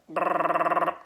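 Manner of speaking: a buzzing brrrr of a FaceTime ring; imitated phone buzz. Hearing FaceTime ring in his pocket, buzzing imitation. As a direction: buzz the lips like a vibrating phone. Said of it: "I know I make a good Chewbacca".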